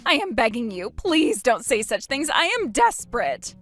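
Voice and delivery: high, strained begging that breaks upward; desperate pleading ex-husband. Acted. Ex-husband begging Christine for help, desperate and high. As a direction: plead like your life depends on it. Ex begs.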